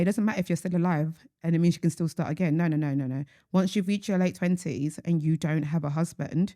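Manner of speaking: deadpan mock advice; dry, understated sarcasm; sarcastic. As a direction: give awful advice as if sincere. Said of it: "I hope you hear the sarcasm".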